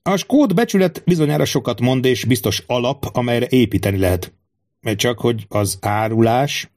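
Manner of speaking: lightly voiced king, measured and musing; a hint of a brooding monarch weighing loyalty; wary king. King speaks in the story. (töprengő, gyanakvó király enyhén színezett hangja)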